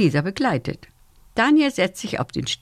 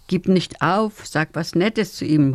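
gentle advice; slower than usual. Acted. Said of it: "rät Lunabella".

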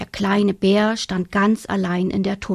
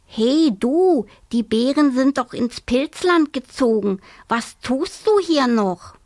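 cheeky hare calling; 4 semitones higher than usual. Acted. Hare calls to the bear mother across the river, perky. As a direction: call over the river, bold and perky.

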